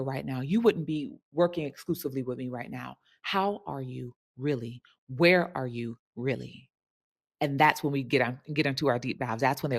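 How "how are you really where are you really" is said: sincere probing. Shown as a demonstration. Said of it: "coach asks probing question".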